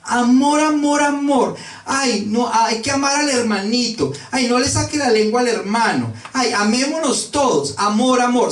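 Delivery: high, cooing parody of lovey-dovey believers; mocking sappy believers. Preacher parodies those who say Jesus is only love, mock-sweet. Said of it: "todo el mundo dice".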